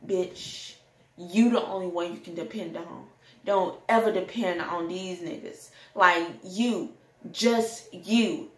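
mock dramatic self-hype; lightly hammed-up sassy pep talk; drama mode. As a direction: hype yourself up, sassy and defiant. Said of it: "I was in drama mode".

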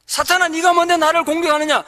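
rebuking Satan with a bold shout; defiant shout. Shown as a demonstration. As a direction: punch 네가 and cry it out. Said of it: "그렇게 외치십시오".

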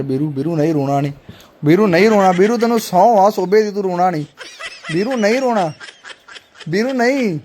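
pleading not to cry while breaking into laughs; a teasing plea that cracks into laughter; laughing mock consoling. To Veeru crying on cue, mock comfort with laughs. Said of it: "Veeru ਸੱਚੀ ਰੋ ਪਿਆ ਯਾਰ".

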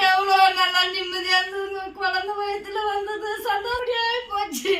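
tearful lament. Acted. Wife lamenting lost pregnancy.

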